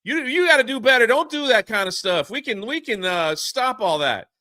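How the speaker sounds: high, loud, fast plea; urgent plea. Retold or imitated. Sam urges the villain to do better, high loud plea. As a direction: urge him hard to stop. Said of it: "And Sam's like".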